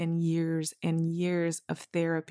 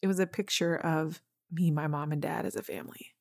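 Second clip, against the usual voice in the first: choked up. Real, not acted. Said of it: "see, I'm about to cry".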